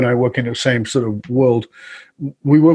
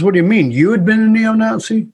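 higher-pitched disbelief, climbing into the question; incredulous retold question; 9 semitones higher than usual. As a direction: imitate a baffled moderator, pitch jumping up. Retold moderator's baffled question.

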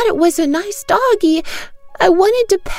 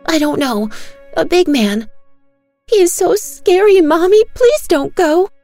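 put-on much higher, louder child voice, pleading; terrified begging child; 11 semitones higher, 6 dB louder than usual. Daughter begging her mother not to leave, very high and afraid. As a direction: beg like a small girl too scared to be left.

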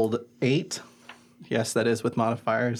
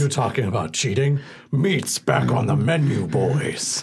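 half-orc, dropping away on the last word. Acted. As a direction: play an orc addressing his gang. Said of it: "is that your half orc voice?".

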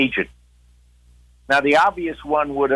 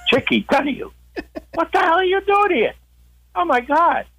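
stunned surprise. Retold or imitated. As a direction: blurt it out in shock at seeing him. Friend stunned to see him.

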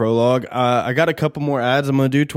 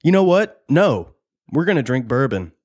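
sudden change of mind; 3 semitones higher than usual. Real, not acted. Host changing his mind about drinks, sudden excited blurt. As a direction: blurt it out as a new plan hits.

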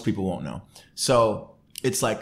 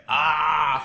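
stifled inner cry; 6 semitones higher, 5 dB louder than usual. Retold or imitated. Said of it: "I'm crying on the inside".

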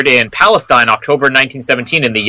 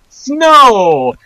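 excited shout; 10 semitones higher than usual. Retold or imitated. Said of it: "We're like".

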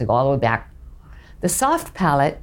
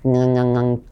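clenched-teeth hum; 6 semitones lower, slower than usual. Shown as a demonstration. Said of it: "clench your teeth at the back".

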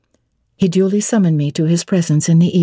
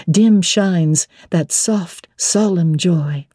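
slower, measured verse recital; poem reading. Acted. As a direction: read the verses like a love song. Narrator reads the song's verses.

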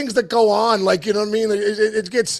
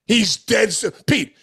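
ordinary talk

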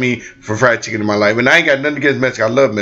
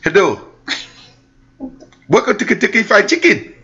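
higher put-on cashier greeting; imitating a cashier's voice; white cashier voice; 9 semitones higher than usual. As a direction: mimic the polite drive-thru speaker. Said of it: "a Caucasian voice".

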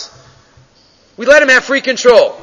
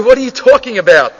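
a hint of a rich man insisting the horse is his; indignant retort; 4 semitones higher than usual. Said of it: "Says the usher".

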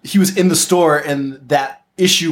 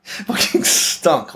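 laughing; much slower than usual. Retold or imitated. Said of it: "the survivors being like".

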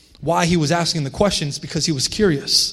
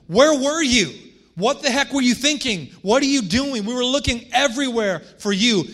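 put-on higher, exasperated parent telling off a kid; exasperated parent scolding; 5 semitones higher than usual. Parent confronting a child who ran off, exasperated scolding. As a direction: scold like a worried parent who finally found them.

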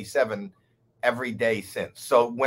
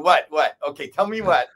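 nervous what; 2 semitones higher, 5 dB louder than usual. Retold or imitated. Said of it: "So then I started going".

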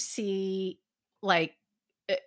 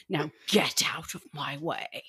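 imitating Loki's low threat; 5 semitones lower, 3 dB quieter than usual. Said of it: "when he said".

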